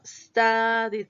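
studied in two beats, first one stretched; two syllables. Shown as a demonstration. Teacher corrects the count, studied in two syllables. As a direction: sound out studied as stu-died.

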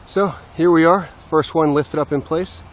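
a bit winded from lifting; slightly out of breath, catching air. Real, not acted. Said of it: "Touch out of breath 'cause it's still heavy".

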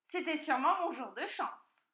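high, gleeful piglet voice; delighted piglet. A narrator's reading. Piglet after outwitting the fox, high delight. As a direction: exult high as a lucky piglet. Piglet echoes the fox's line.

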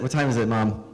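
put-on high, eager child nagging mom; boy pestering his mom about the show, excited and high; excited kid.

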